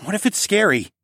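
worried father. A narrator's reading. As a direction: gently test her. Father asks daughter.

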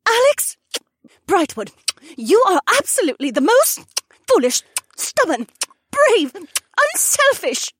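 very high, loud ecstatic woman; gushing praise between kisses; joyful excited cries; overjoyed outburst. A narrator's reading. Shay overjoyed, kissing him.

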